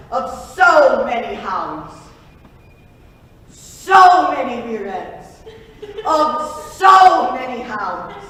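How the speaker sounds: slow, giggling repeat; laughing. Acted. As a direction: crack up as you repeat it.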